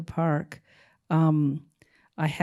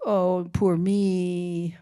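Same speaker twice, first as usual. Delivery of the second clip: mock self-pity; much slower than usual. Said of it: "kind of movie".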